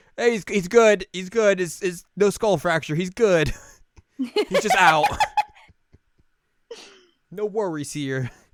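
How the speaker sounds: put-on Brooklyn accent. Retelling a scene, quoting a character after someone is knocked out, in a brooklyn accent. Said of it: "Why'd you give her a Brooklyn accent?".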